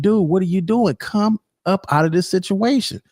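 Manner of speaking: lightly voiced exasperated woman; fed-up girlfriend. Woman tired of her man's jail drama, lightly voiced exasperation. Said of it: "She's tired. Like".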